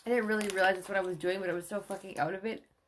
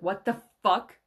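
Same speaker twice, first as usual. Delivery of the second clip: shocked outburst; 7 dB louder than usual. Retold or imitated. Running in, shocked by song.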